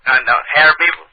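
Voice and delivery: put-on country accent; lightly countrified prank caller. Prank caller insisting on Harry Beaver, country accent. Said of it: "my country ass voice".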